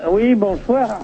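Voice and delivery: thin distant phone line; crackly cordless phone. Real, not acted. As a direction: caller heard through a bad line. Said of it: "je vous entends mal".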